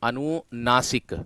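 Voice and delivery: अनुनासिक spelled out slowly, syllable by syllable; teacher sounding out अनुनासिक; slow model word. Shown as a demonstration. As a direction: say अनुनासिक slowly so pupils catch it. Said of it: "अगर मैं अनुनासिक की बात करता हूं".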